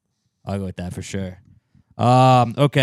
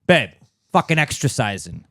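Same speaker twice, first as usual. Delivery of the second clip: loud mock quote; 4 semitones higher, 5 dB louder than usual. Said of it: "it's like".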